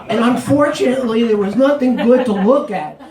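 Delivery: words pushed through laughter; laughing while talking. Real, not acted. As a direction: talk through your own giggles.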